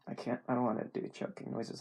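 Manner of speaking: usual speaking voice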